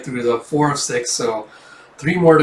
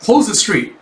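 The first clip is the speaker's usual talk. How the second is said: cop order; 8 semitones higher, 5 dB louder than usual. Acted. Police officer giving orders.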